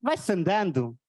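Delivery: weary, resigned Portuguese grumble; gloomy Portuguese sigh. Retold or imitated. Comic imitates a pessimistic Portuguese reply, weary sighing. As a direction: sigh out life's burden. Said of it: "some of us do something like this".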